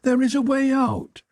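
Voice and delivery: high, shrill maniac chant; crazed repetition. A narrator's reading. Maniac gnawing at his victim, wailing. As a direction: wail it over and over, far above normal pitch. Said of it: "Mumbling as it worked".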